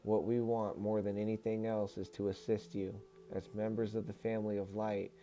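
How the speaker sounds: even, measured reading voice; book read-aloud. Acted. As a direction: deliver it as a formal message to listeners. Resumes reading channeled book.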